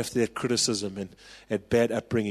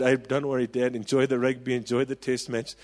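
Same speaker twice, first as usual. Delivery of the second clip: put-on brave boy voice. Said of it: "big, brave fifteen-year-old voice".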